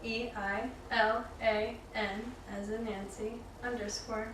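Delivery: slow, careful, polite spelling out; customer service voice. Acted. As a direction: spell it like a friendly phone agent. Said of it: "customer service, voice right there".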